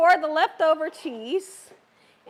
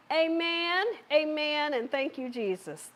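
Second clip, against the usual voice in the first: soft amen; 5 dB quieter than usual. Real, not acted. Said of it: "say amen".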